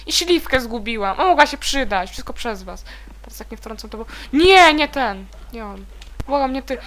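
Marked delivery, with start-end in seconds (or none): none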